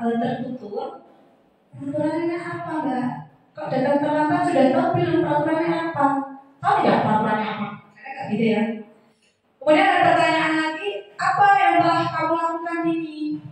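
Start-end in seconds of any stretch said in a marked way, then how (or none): 1.7-7.7 flat, wise tone. Shown as a demonstration. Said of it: "Nada suaranya itu datar". 11.2-13.4 flat, wise tone. Shown as a demonstration. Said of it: "Nada suaranya itu datar".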